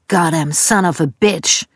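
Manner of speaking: slow, drawn-out curse; understated retold yell; mild mock holler. A narrator's reading. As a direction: lightly voice Dad's cursing, stretched out. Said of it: "ertönte ein weiteres".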